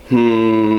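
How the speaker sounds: Grudge-style hum; demo hum. Shown as a demonstration. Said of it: "and you go".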